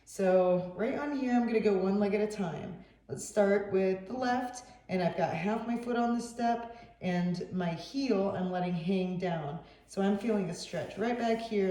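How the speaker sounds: muffled, phone mic covered; muffled voice far from the mic. Real, not acted. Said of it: "sorry if I sound muffled here".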